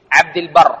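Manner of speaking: البر said "al-barr" with an a; correct Arabic pronunciation. Shown as a demonstration. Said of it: "نام کیا ہے یہ؟". (البر کو زبر سے "بَرّ" پڑھیں)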